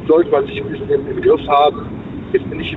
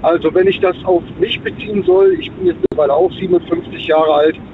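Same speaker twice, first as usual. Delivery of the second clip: stuffy nose. Real, not acted. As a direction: voice thick with a head cold. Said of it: "ich bin ein bisschen erkältet".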